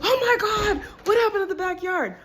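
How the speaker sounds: high, squealing disbelief with a laugh; amazed niece. Retold or imitated. Niece seeing the cleaned backyard, high laughing amazement. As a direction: imitate the niece gasping in delight. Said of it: "She was like".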